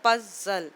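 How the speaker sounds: पजल parted as पज, then जल; slight break inside पजल after पज; split into syllables. Shown as a demonstration. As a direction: say पजल in two beats. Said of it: "divide कर देंगे दो syllable में".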